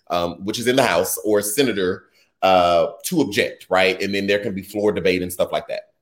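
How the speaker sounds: ordinary talk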